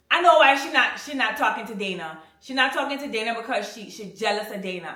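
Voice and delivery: imitating the stepfather, bursting out loud at first; mock stepfather outburst. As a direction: mimic him blurting it out, then settling. Stepfather voiced in retold argument.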